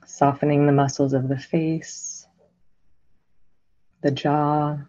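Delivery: unhurried meditation guidance with long silences; guided meditation. Real, not acted. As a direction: guide listeners gently into stillness, phrase by phrase.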